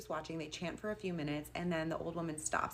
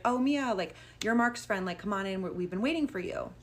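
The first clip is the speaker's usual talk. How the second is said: higher and louder, an eager hostess voice; welcoming old woman; 3 semitones higher, 5 dB louder than usual. Retold or imitated. Robed old woman welcoming Mia at the door, higher and louder. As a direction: greet her brightly, a touch too eager.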